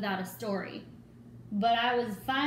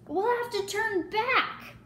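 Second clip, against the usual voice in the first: much higher, louder, slow desperate call; yelling; 11 semitones higher, 3 dB louder, slower than usual. A narrator's reading. Another pirate urging retreat in the storm, slow desperate yell. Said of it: "yelled another".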